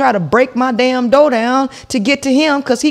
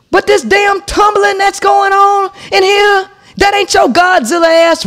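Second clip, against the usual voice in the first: raised voice; 4 semitones higher than usual. Retold or imitated. Heated argument.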